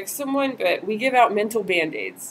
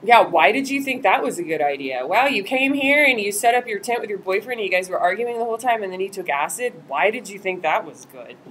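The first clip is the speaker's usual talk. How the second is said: judgy. Shown as a demonstration. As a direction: lay on the judgment. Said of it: "It's very judgy".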